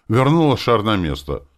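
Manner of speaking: ordinary delivery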